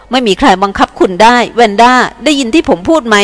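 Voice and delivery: ตะโกนขึ้นเล็กน้อย เน้น ไม่มีใคร; ขึ้นเสียงยืนกราน; ตะโกน. Acted. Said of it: "เขาเริ่มตะโกนอีกครั้ง". (เอียนตะโกนใส่แวนด้า ขึ้นเสียงเล็กน้อย)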